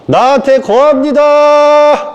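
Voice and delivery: high, slow, drawn-out proclamation; slow solemn decree. Pretend. Preacher speaking the one sentence that binds the pulled-in souls, slow and ceremonial. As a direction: pronounce it like a ritual decree.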